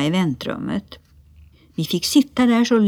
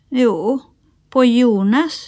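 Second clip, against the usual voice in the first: put-on higher child voice, pert; cheeky little sister; 6 semitones higher, 4 dB louder, slower than usual. A narrator's reading. Lotta explaining whose tooth was pulled, cheeky. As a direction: correct them like a small girl.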